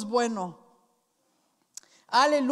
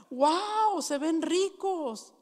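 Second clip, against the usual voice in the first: mock surprise; 4 semitones higher, much slower than usual. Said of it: "boss reacts to figs".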